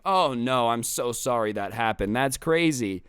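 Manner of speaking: half-hearted mock concern; unconvincing sympathy. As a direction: say sorry without really meaning it. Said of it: "not, like, being very convincing".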